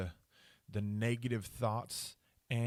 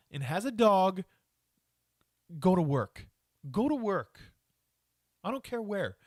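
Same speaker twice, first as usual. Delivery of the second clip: louder, higher exasperated rant; angry rant; 5 semitones higher, 4 dB louder than usual. Real, not acted. Podcaster scolding homeless dog owners, angry rant. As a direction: rant it out, fed up, punching words. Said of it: "I sound angry".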